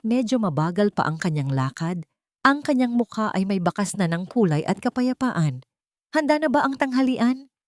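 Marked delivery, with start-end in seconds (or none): 6.1-7.5 soft voice. Acted. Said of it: "Ito ay malambot na ngayon".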